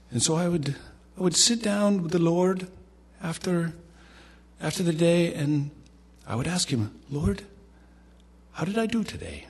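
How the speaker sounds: put-on high-pitched little Indian accent; K P Yohannan. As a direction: imitate an Indian preacher, pitched well up. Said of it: "in his little Indian accent".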